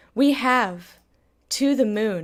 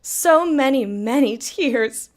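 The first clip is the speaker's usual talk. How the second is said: laughing; 3 semitones higher than usual. Acted. Laughing at own sad line.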